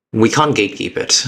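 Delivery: normal talking voice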